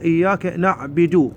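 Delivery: إياك نعبد slowly, ending "na'bidu"; imitating the misreading of نعبد; common mistake. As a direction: put an "i" after the b of نعبد. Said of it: "هنا هواية أخطاء أغلبية الناس يقرؤون".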